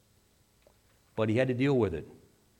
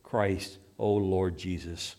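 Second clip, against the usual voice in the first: slow, understated retold plea; plaintive pleading; 3 semitones lower, slower than usual. Tortured dying atheist pleading to Christ, mildly plaintive. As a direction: plead slowly, with mild sorrow. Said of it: "in plaintive accents he pleaded".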